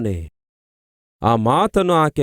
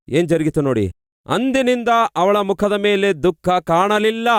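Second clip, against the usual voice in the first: ordinary talk, nothing marked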